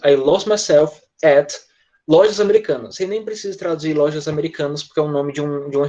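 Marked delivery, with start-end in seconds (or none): 0.0-3.0 each word slow and separate; slow model sentence. Shown as a demonstration. Teacher showing students the sentence slowly. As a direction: lay it out slowly for the class. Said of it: "Pronto, lojas americanas".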